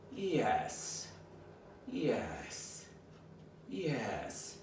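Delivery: soothing praise on the exhale, no excitement; calm low praise. Shown as a demonstration. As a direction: drop the note down on the exhale. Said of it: "I'm taking that tone and I'm dropping it down".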